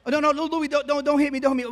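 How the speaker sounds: high, loud whiny goofy pleading; Jerry Lewis begging. Retold or imitated. Comic begs crazy Louis not to hit him, high goofy whine. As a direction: beg for mercy in a high, loud nutty voice. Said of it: "if I do my Jerry Lewis".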